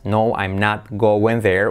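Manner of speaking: "No, I'm not going there" low and slow; separate words. Shown as a demonstration. Teacher shows letters and words, low and slow. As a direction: sound each word slowly, pitch kept low. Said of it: "tenemos letras y palabras".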